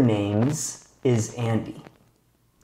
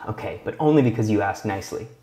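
mock reluctance; 4 semitones lower, much faster than usual. Teasing reluctant agreement.

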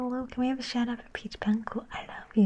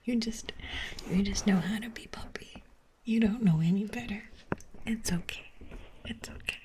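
mock forgiving owner.

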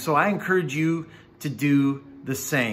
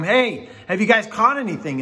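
higher mock call from shore; retold yell; 5 semitones higher than usual. Man on shore hailing fishermen out at sea, retold yell. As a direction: call out, only mildly raised. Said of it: "he yells out to him".

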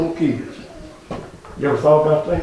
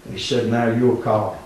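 quiet; 3 semitones lower, 7 dB quieter than usual. Real, not acted. Quiet reflective after climax.

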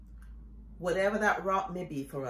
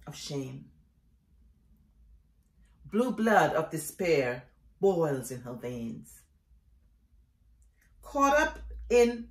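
measured, dramatic poetry reading with long pauses; poem recitation; 2 semitones higher than usual. Acted. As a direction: recite each phrase with weight, letting it fall away. Reads own poem aloud.

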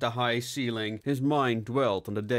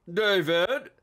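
calling out; 8 semitones higher, 4 dB louder than usual. Acted. Chief calls across office.

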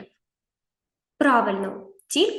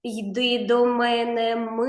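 calling the mouse. Shown as a demonstration. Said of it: "Покличемо мишу".

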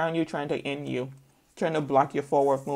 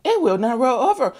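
higher, louder frustrated voice; frustrated owner; 7 semitones higher, 5 dB louder than usual. Retold or imitated. Owner frustrated with the puppy, higher and louder. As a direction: complain about the stubborn pet, pitched up. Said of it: "He said".

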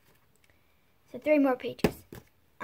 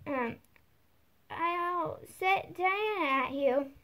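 loud threat, high at the start then slower; calling out loud; 4 semitones higher, slower than usual. A narrator's reading. Alice threatening the animals outside, loud call. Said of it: "called out as loud as she could".

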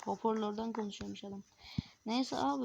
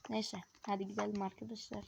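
whispering; 6 dB quieter than usual. Real, not acted. Leaving quietly after petting car.

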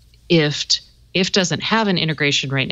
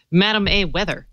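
blunt two-word command to "Madam A weather."; curt command. Retold or imitated. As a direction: bark "Madam A weather." short and flat. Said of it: "if you're very curt with her".

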